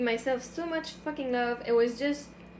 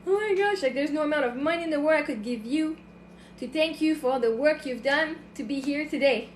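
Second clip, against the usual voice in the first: retold tearful thanks, pitched a little up; tearful gratitude; 3 semitones higher than usual. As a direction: re-enact being overcome with grateful tears. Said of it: "crying like".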